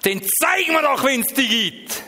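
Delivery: angry demand; retold yelling. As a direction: shout the dare up at God. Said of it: "Ich habe geschrien und geschrauen".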